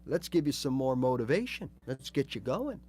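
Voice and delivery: a light, encouraging inner coach; upbeat brain voice. Acted. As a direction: cheer yourself on as your own brain. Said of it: "now my brain's going".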